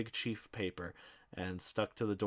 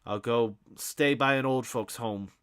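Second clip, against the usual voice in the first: high, loud screaming threat; mother screams at her son she'll sell the house; 6 semitones higher, 10 dB louder than usual. Acted. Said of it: "Miss Riley screamed".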